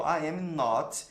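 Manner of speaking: slow, word-by-word English example; slow teaching model. Shown as a demonstration. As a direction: spell each word out slowly for students. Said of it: "só vou acrescentar um not". (frase modelo bem devagar)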